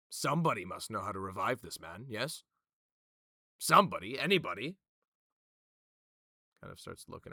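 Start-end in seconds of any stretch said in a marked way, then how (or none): 0.1-4.8 loud, rising appeal for volunteers; appealing to the room. Acted. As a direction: canvass the room, building in volume. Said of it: "He kind of looks around and goes".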